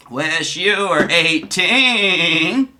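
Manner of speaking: slow, drawn-out put-on voice; Donnie's chat voice. Streamer voicing Donnie's reply in chat, slow put-on voice. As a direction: stretch the words out slowly. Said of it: "forgive my voices".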